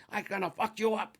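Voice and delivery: hammed-up jealous husband; mock angry owner. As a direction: owner shouting back through the door. Owner yelling back.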